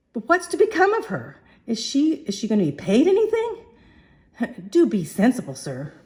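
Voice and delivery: high, loud and quick; a lightly voiced flower girl pleading; Cockney girl. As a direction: press the question in a high rush. Liza's high voice, not Mrs Pierce.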